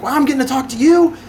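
high-pitched starstruck gushing; excited callers. Retold or imitated. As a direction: imitate a thrilled customer, pitch jumping up. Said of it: "They're excited".

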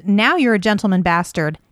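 "gentleman" lifted above the other words; quoted line leaning hard on "gentleman"; stress on gentleman. Retold or imitated. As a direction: punch the word "gentleman" in the quote. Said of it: "Emphasis on gentleman".

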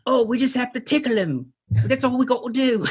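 high, hammy villain voice; Austin Powers villain. Retold or imitated. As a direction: camp it up like a cartoon villain. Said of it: "sounds like a villain in an Austin Powers".

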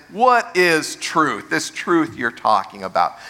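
scornful rhetorical question; cynical, insincere question. Shown as a demonstration. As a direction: toss it off as if no answer exists. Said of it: "the tone is".

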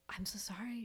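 a soft, worried whisper; whispered apology. Retold or imitated. Nurse whispering an apology to the crying client. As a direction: whisper it like you're afraid you hurt her.

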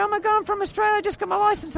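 high-pitched acted innocent pleading; hammed-up, high-voiced alarm; mock panicked plea. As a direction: plead high, as if caught by police. Retold plea to police at gunpoint.

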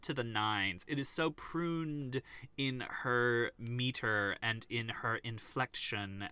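slow, precisely separated words; clipped and measured. Shown as a demonstration. Host describes the actress's British dialect, mimicking clipped precision. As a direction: measure out each phrase with care. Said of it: "It is so clipped to the nines".

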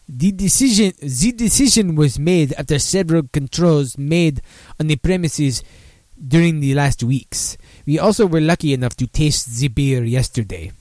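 put-on reading a quote in a light French accent; a hint of French on each word. Host reading a brewer's quote to listeners, lightly French accented. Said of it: "Let's see if I can do a French accent".

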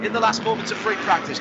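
live race play-by-play; motorsport commentator. Acted. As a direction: call the last lap as it unfolds. Live play-by-play of final lap.

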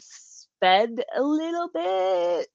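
slow tearful words, voice wet; crying. Real, not acted. Telling the hosts she cried while driving, tearful. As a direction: speak slowly through real tears. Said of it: "I am crying".

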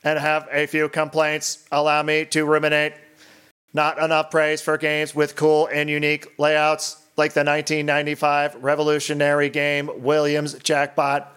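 monotone eighties robot voice. Acted. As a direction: read it like an old eighties robot. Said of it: "to be read in an eighties robot voice".

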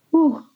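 a high, shaky breath out while holding back tears; a real whew as tears come; emotional exhale. Real, not acted. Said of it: "Someone's crying".

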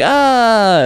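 short high mock scream. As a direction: squeal it like a fleeing horror heroine. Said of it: "screaming the same scream".

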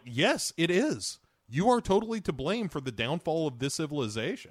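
emphatic blame. Retold or imitated. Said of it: "I'm like".

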